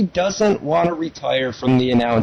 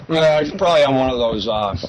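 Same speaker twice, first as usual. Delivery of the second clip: chewing ice. Real, not acted. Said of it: "I'm chewing on an ice cube here".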